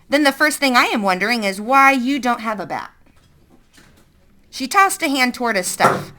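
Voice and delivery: a hint of a stern woman; lightly voiced suspicious woman. Woman questioning.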